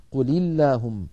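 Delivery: "قل اللهم" recited as "quli-llahumm"; kasra on lam. Shown as a demonstration. Teacher showing the result, "قل اللهم" joined with kasra. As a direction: link قل into اللهم with an i-vowel. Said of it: "فحرك الأول بالكسر فصارت".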